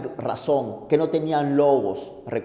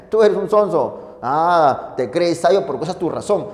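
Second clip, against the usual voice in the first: voicing Tertullian. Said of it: "Le digo".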